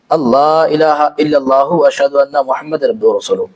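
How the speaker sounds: slow prayer recitation. Shown as a demonstration. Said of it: "हाँ, इस तरह से".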